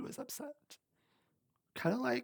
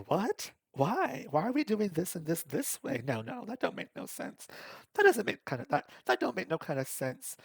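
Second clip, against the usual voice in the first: higher-pitched mock disbelief; indignant protest; 7 semitones higher than usual. Employee objecting to boss's new plan, indignant protest. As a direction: push back, retelling your own objection.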